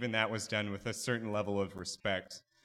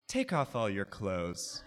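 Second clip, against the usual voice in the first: slow clear instruction; 5 semitones lower, 4 dB quieter, slower than usual. Retold or imitated. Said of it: "in a very clear, clear understanding tone".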